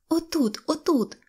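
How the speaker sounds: put-on high, fretful little girl; anxious pointing out. A narrator's reading. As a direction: show the spot nervously, high-pitched. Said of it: "хвилювалася Синьоочка". (схвильований дитячий голос)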